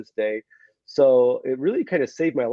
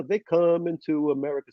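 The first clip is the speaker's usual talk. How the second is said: put-on sung line in an American accent; practiced American-accented song line; accent lost, American; 3 semitones higher than usual. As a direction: sing it with the Russian accent gone. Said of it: "Slowly, I, I lost the accent".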